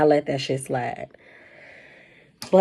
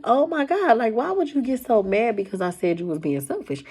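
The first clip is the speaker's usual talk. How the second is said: exasperated protest; 5 semitones higher than usual. Retold or imitated. Retold protest to angry ex.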